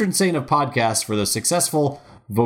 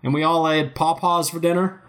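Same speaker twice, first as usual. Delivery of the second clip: put-on old man voice; 6 semitones higher, 3 dB louder than usual. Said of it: "joins the old man bit".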